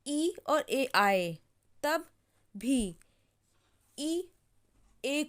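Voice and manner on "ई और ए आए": very slow, ई and ए spaced apart; teacher stressing the vowel pair; slow emphasis. Shown as a demonstration. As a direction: stress ई and ए slowly. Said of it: "जब किसी word में".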